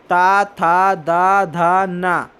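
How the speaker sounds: ता था दा धा drawn out slowly with the tongue on the teeth; दांत से ता, था, दा, धा धीरे बोलिए; dental syllables. Shown as a demonstration. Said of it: "दांत की मदद से बोले जा रहे हैं". (दंत्य वर्ण धीमे स्पष्ट)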